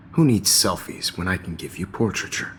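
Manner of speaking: creepy predator voice. Acted. Nightmare teacher turns menacing.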